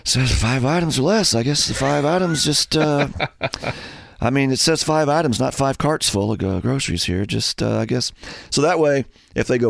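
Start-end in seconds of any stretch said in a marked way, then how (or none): 0.0-8.1 passive-aggressive self-talk; talking to yourself. Acted. Annoyed shopper pretending to talk to himself in line, pointed self-talk. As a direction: grumble to yourself so others overhear. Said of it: "you just talk to yourself".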